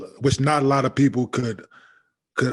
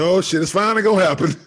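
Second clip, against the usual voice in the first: laughing mock alarm; 5 semitones higher, faster than usual. Mock imagined reaction, laughing.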